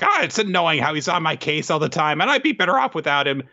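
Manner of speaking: high, annoyed cartoon grumble; Nobuteru. Leader complains about Ren, high and peeved. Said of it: "And he's like".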